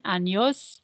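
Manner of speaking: "Años" drawn out as an-yos, ending on a rise; ñ pronunciation model. Shown as a demonstration. Teacher has the class practise again, "Años" with careful ny. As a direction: model "Años" with a clear ny for repeating. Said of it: "Practice again".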